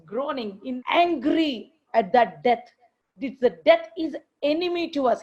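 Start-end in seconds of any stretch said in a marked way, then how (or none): none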